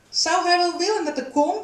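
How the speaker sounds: high-pitched questioning call; calling after someone. A narrator's reading. Wout calls after Lucia as she leaves, calling out high. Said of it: "riep Wout haar na".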